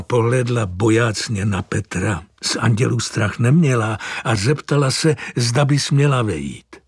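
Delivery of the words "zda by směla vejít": ordinary delivery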